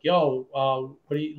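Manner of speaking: imitating a friend gone serious; grave phone voice, lightly imitated; all serious. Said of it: "like, all serious".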